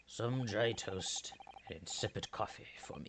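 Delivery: soft, low, fading to a whisper; weakly ask, as if drained of life; dejected. Acted. Depressed detective asking Iris for breakfast, listless.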